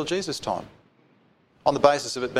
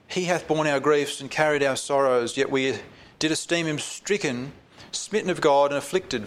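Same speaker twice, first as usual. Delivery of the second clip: slightly raised, measured Bible reading; solemn reading from the pulpit; scripture reading; 2 semitones higher than usual. Acted. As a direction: read the prophecy out with gravity. Reads scripture aloud.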